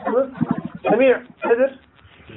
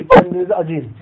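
"Kendinizi acıyın" repeated much higher and louder; emphatic repeat; 10 semitones higher, 5 dB louder than usual. Retold or imitated. The Prophet urging shouting companions to stop, raised and pleading. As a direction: cry out "Kendinizi acıyın" as an urgent plea. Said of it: "Diyor ki".

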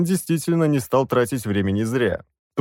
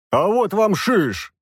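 slow indignant croak; the demon bursting in, outraged; indignant rasp; 9 semitones higher, slower than usual. Acted. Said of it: "возмущённо прохрипел я". (возмущённо, с хрипом)

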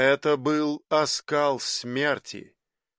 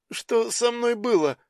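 put-on higher-pitched, dazed young man's question; lightly voiced youth just coming round; babbling youth; 8 semitones higher than usual. A narrator's reading. Revived youth asks what happened, babbling. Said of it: "пролепетал юноша".

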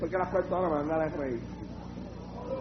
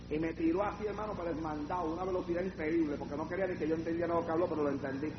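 hushed quick aside; 10 dB quieter, faster than usual. Real, not acted. Preacher confiding to a brother how the demon tricked him, hushed aside. Rapid low aside to the congregation.

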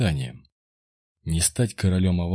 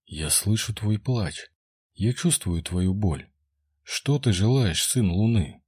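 soothing goddess voice. Acted. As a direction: soothe him gently, slowly. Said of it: "Такой успокаивающий и укачивающий голос".

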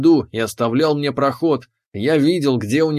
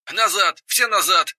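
high, urgent yell of a captain; 5 semitones higher than usual. Acted. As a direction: bark the order to fall back. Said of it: "заорал капитан".

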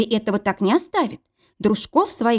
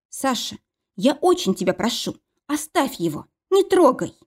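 pleading; 5 semitones higher than usual. Acted. Mila pleading with Sasha.

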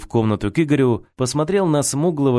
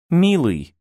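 tearfully; 6 semitones higher than usual. A narrator's reading. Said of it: "заплакала Аня".

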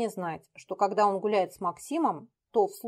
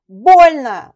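high loud yelp of pain; whimper of pain; 6 semitones higher, 19 dB louder than usual. Acted. Петя whimpers in pain under Дмитрий, yelping. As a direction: cry out in pain. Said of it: "заскулил тот".

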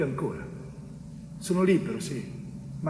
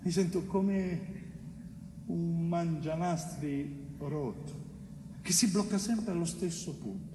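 slow and much softer, worn out; weary and hushed; 9 dB quieter, slower than usual. Acted. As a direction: drag the words out, tired to the bone. Weary image of broken tape.

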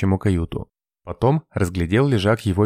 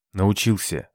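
ordinary delivery

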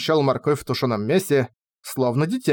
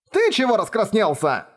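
high-pitched flustered squeal; 8 semitones higher than usual. A narrator's reading. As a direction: squeak it out in alarm. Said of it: "взвизгнула я".

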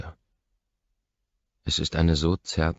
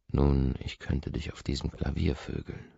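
seductive. Acted. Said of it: "Meine Stimme will verführen".

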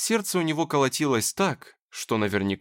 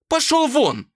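very high, loud order to leave; furious shout; 14 semitones higher, 7 dB louder, slower than usual. Acted. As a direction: scream at him to get out. Dasha throws him out.

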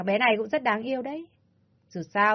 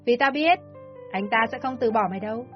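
raised, insistent villain voice; harsh demand; 3 semitones higher than usual. Acted. Ly insisting the mother must die, harsh. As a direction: press her without mercy.

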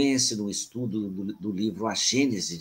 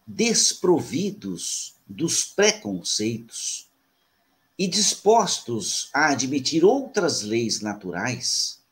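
slow, measured oratory with long pauses; formal reading aloud. Real, not acted. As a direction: read it out solemnly, phrase by phrase. Reads aloud his written introduction. (leitura solene e pausada)

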